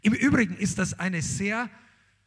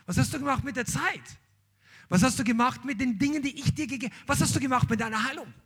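higher, pressing questions, building up; Jesus demanding an account, rising urgency; Jesus asking questions; 3 semitones higher than usual. Acted.

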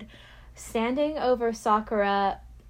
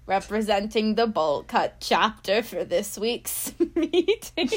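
spooky witch voice. Acted. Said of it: "I was kinda doing, like, a spooky witch voice".

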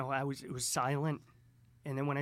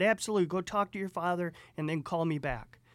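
louder, lifted opening, then easing slightly; energetic; 4 semitones higher, 5 dB louder than usual. Retold or imitated. Investor sending him off to ask his father, energetic. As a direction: quote an eager, energetic go-ahead. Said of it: "He was all energetic".

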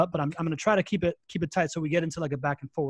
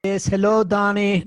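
loud mock greeting, pitched up; joke put-on voice; 4 semitones higher, 10 dB louder than usual. Guest kidding the host with a fake way of talking, joke put-on voice. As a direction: put on a higher, louder voice as a gag. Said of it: "that's not how I talk".

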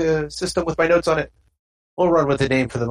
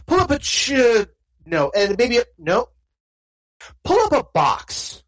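a lightly voiced genial stranger, a touch higher; welcoming, easygoing host voice; offhand friendly stranger inviting the player to sit; stranger NPC voice; 7 semitones higher than usual.

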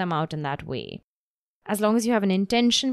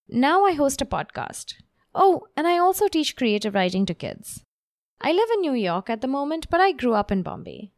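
livelier, more varied intonation with pauses; lively read; 3 semitones higher than usual. Shown as a demonstration. Coach showing students the improved intro, lively. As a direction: make it juicy and interesting. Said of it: "you hear how different that sounds".

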